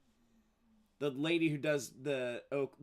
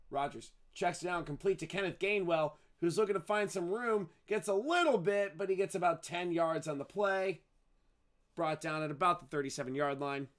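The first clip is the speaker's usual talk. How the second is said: live football call, lifting as the play develops; 2 semitones higher than usual. Real, not acted. Announcer follows a completed pass downfield, live play-by-play.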